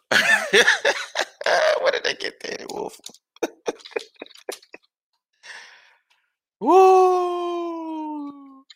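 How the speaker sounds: cracking up at the draft pick; laughing disbelief. Real, not acted. Laughing at Danny Wuerffel pick.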